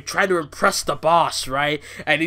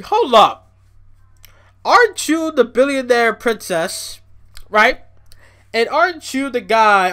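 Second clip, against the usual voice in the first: incredulous; 4 semitones higher, 3 dB louder than usual. Retold or imitated. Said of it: "I'm thinking".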